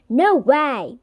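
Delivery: loud, mildly shouted disbelief; shouting. Acted. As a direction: call out a loud objection. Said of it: "we all shout".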